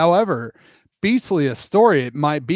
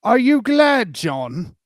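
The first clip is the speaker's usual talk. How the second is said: voicing Wendy; 8 semitones higher, slower than usual. Wendy asks the boys.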